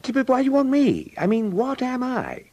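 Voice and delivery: high, loud, panicky protest; alarmed protest. Acted. Bertie pleading with his aunt about the prizes, high and alarmed. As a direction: yelp it in horrified disbelief.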